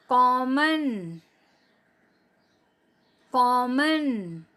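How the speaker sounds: हॉकी, गॉड, कॉफी, कॉमन each said very slowly with a long open ऑ; slow model words. Shown as a demonstration. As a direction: model every word slowly for repetition. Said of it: "बोलिए बच्चों".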